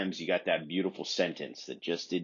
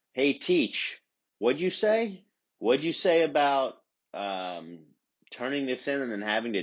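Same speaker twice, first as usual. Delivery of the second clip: mock sass at teacher; 6 semitones higher than usual. Talking back to teacher.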